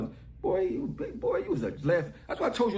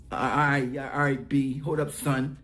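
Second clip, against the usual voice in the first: lower, hesitant mock rapper, stammering as he asks his idol; nervous fan phoning his idol, in a lower mock voice; imitating a rapper; 5 semitones lower than usual. Voicing a rapper calling his idol.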